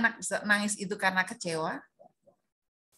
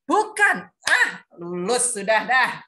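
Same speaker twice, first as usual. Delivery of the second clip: excited cheer; 3 semitones higher, 6 dB louder, slower than usual. Real, not acted. Teacher cheers correct chat answer.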